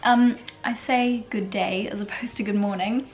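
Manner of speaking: hushed, gentle voice to spare the throat; soft, calm voice. Real, not acted. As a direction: keep it soft and relaxed. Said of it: "If I sound very calm and relaxed".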